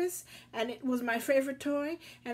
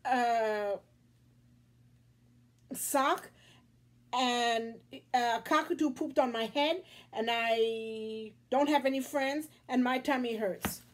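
put-on whiny crying kid; 4 semitones higher, 5 dB louder than usual. Crying boy lists his woes.

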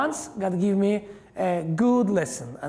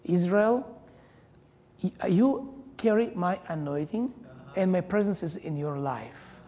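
gentle voice of the Holy Spirit. Retold or imitated. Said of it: "gentle voice of the Holy Spirit".

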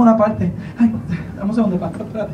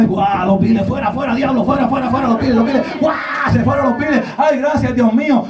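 mock shouting; 3 semitones higher than usual. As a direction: cast out the loads with a joyful yell. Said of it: "y gritaba y hablaba". (grito exaltado de alabanza, medio en broma)

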